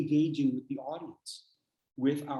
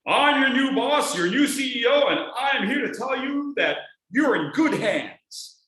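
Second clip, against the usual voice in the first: much higher, louder, overbright CEO pitch; new boss speech; 9 semitones higher, 7 dB louder than usual. Shown as a demonstration. Trainer playing a new CEO to staff, brash and loud. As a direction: sell the confidence a bit too hard. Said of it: "go into a speech and do this".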